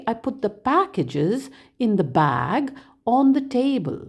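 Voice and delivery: three chunks, each landing on its last content word: "packages", "bag", "table"; thought-group stress. Shown as a demonstration. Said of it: "last content word in each thought group receives the most stress".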